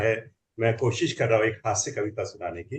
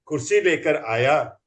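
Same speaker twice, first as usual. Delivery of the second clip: comic poem recital; 2 semitones higher than usual. Acted.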